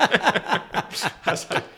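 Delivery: high laugh breaking through; cracking up mid-sentence. Real, not acted. Laughing at his own cluelessness.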